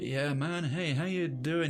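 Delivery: relaxed, mellow, laid-back surfer-dude voice. Imitating how a streamer talks while describing him, in a mellow surfer voice. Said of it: "He's got this like surfer's voice".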